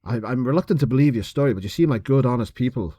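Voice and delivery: lightly put-on Irish lilt; Irish accent impression. Host quoting the cop to prove he's Irish, light Irish accent. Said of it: "I could have sworn he was Irish".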